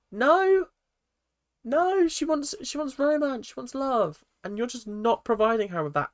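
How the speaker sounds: high-pitched, exasperated protest; worked-up scolding on someone's behalf; indignant rant. Real, not acted. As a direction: tell him off in disbelief, pitched well up. Indignant rant at absent husband on show.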